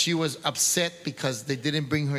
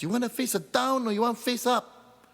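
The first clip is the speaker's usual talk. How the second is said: executioner's voice; 9 semitones higher than usual. Acted. Executioner asks Masa.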